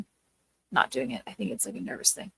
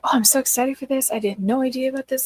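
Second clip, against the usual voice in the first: mock gushing excitement; 4 semitones higher, 5 dB louder than usual. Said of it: "she just over-exaggerates stuff".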